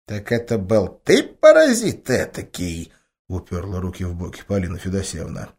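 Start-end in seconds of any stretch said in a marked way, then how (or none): 0.1-2.9 mock-outraged grandma. A narrator's reading.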